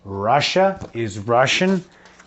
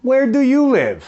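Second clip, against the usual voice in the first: put-on much higher, bright child's voice asking "where do you live?"; 11 semitones higher than usual. Teacher plays a pupil asking Teacher Ryan, high childlike voice. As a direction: pitch way up like a student asking the teacher. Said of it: "você fala".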